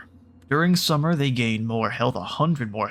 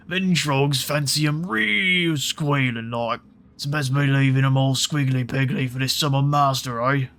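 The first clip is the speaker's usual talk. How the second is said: two-headed giant; 3 semitones higher, 3 dB louder than usual. Acted. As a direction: relish it like a greedy brute. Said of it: "Oh, wait".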